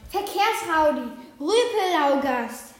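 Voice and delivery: slow, indignant name-calling; scolding raven. A narrator's reading. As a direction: spit out the insults at the wolf. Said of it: "schimpft der kleine Rabe". (empört schimpfend, langsam)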